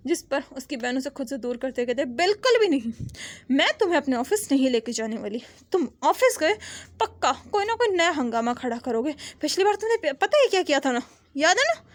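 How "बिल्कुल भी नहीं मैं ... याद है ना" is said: mock stern telling-off; scolding sister. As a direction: tell him off like an exasperated big sister. Sister scolds troublemaker brother.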